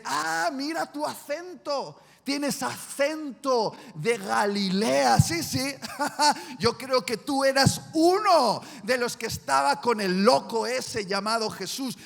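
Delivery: loud, mocking accusation with a laugh; accusing bystander. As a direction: call him out gleefully in front of everyone. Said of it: "alguien dice".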